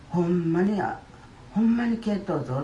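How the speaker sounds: a doctor who can't believe the scan; doctor exclaims to the patient that the cancer is gone; amazed doctor. Retold or imitated.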